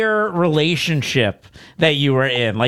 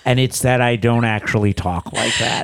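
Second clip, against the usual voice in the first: mock-solemn British accent, lower pitched; British accent confession; 4 semitones lower than usual. Podcaster acting out the confession to a boyfriend, British accent. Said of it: "start out in the British accent".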